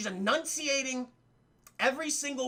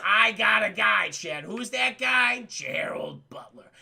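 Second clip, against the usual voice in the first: dramatic movie reveal; 4 dB louder, slower than usual. Retold or imitated.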